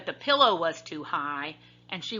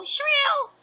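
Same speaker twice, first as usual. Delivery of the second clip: high, slow squeal on SHRILL; 5 dB louder than usual. A narrator's reading. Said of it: "when she heard the baby bear's voice".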